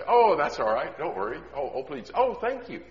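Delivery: sugary, rising polite thanks; overly polite stranger. Pretend. Voicing a shopper being polite to a stranger, sugary. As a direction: gush politely at the cashier.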